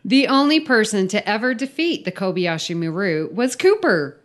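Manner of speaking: emphatic read-aloud of a silly briefing; story read-out. Acted. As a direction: read the mission briefing with mock importance. Reads the filled-in story aloud.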